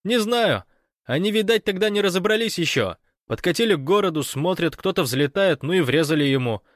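high, loud breathless report; excited Fyodor on the phone. Acted. Fyodor reporting the invasion to Gosh by phone, excited. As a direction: rattle it off, caught up in the drama.

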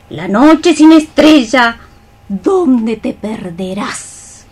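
ominous warning. Acted. Old woman warns of death.

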